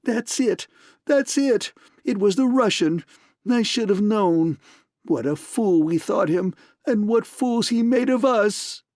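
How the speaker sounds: excited man spilling words, shrill and high; shrill spluttering. A narrator's reading. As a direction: splutter it out in a frenzy. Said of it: "in a shrill, spluttering stream".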